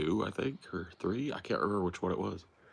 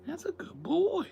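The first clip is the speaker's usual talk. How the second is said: whisper. Acted. Whispered praise to the dog.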